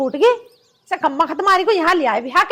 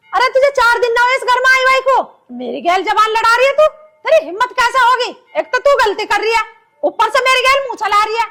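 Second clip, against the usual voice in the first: raised scolding mother-in-law; 3 semitones higher than usual. Acted. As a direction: scold her for talking back. (सास की डाँट, ऊँची आवाज़ में)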